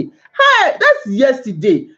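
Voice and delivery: mock the husband through laughter; laughing mockery of the complaint.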